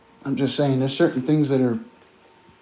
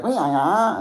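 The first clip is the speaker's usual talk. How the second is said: imitating Chinese speakers; 6 semitones higher than usual. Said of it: "I'd be like".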